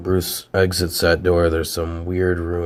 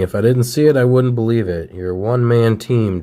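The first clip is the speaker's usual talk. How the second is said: amazed praise; 5 semitones higher, 6 dB louder than usual. Retold or imitated. Cap amazed at Hulk.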